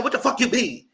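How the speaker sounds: high-pitched mock indignation; retold outburst. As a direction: mimic his indignant challenge. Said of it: "You just had an outburst".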